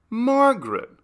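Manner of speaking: high, loud call across the trees; calling through the woods. Acted. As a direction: shout her name from far off. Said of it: "Carla called through the woods".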